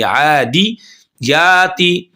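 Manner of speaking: आदि then याती as separate beats; careful teaching demo; syllable by syllable. Shown as a demonstration. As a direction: split the word into two clear parts. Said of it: "या ते नहीं करेंगे".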